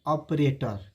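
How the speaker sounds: ऑपरेटर with an open "aw" start; wrong pronunciation. Retold or imitated. Teacher shows how we misread ऑपरेटर, open "aw". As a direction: say ऑपरेटर as "awp-rator". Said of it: "जो कि बिल्कुल गलत है".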